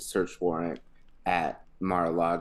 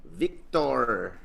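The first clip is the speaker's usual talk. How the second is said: Russian accent attempt; much slower than usual. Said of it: "I was trying to go Russian".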